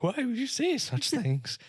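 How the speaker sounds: mock offended little girl; the other girl answering the insult, hammed-up hurt; hurt child. Other child's reply voiced.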